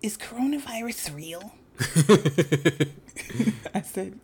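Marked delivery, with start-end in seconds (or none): 0.0-1.5 lightly voiced little boy, slightly higher; a hint of a child's lisp. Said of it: "he has a little bit of a lisp".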